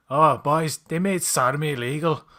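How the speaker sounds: mock outrage, loud opening; indignant complaint, lightly acted; pissed-off Newfoundlander. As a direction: imitate a miffed Newfoundlander griping to his pals. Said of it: "he's pissed off".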